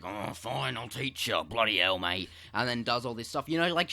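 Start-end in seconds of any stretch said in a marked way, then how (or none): 0.0-2.3 mock British accent. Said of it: "why am I doing a British accent".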